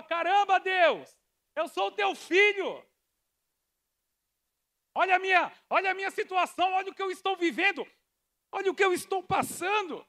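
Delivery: high, fast pleading to God; pleading complaint. Retold or imitated. A believer pleading with God about hardship. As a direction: beg God to look at your suffering.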